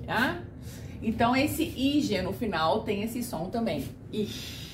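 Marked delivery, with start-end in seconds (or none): 4.1-4.7 Ich breathed out as a soft unvoiced hiss; whispered ich. Shown as a demonstration. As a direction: whisper Ich with a relaxed smile. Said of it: "Sorrindo sempre e procurando relaxar".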